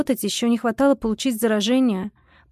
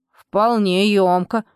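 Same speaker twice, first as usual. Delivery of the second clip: slow, revived house spirit; strengthened spirit voice; 2 semitones lower, 3 dB louder, much slower than usual. A narrator's reading. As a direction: let the spirit's voice gather strength. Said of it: "Голос ожил, окреп".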